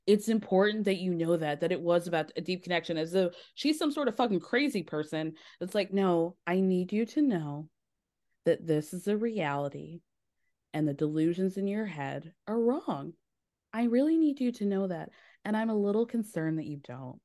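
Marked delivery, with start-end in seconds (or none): 0.0-3.0 mildly patronizing mock explanation; condescending. Retelling his excuse about a deep connection, mildly condescending. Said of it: "most conse-, condescending thing". 5.9-17.2 low, patronizing mock concern; condescending. Mimicking him insisting that she face reality, condescending. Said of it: "condescending thing".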